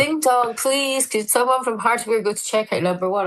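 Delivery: high, sing-song ding dong then announcer read; mock public address voice; store tannoy announcement. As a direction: imitate the shop tannoy chime and call. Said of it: "And they go".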